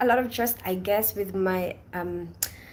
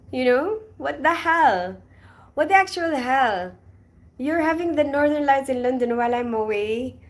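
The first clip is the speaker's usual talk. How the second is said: mock exasperation; 5 semitones higher, 4 dB louder than usual. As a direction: act out being fed up. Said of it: "I was like".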